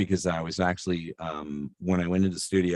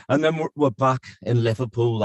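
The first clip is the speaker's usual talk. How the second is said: put-on Liverpool accent; 4 semitones higher than usual. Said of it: "do the tour of Europe".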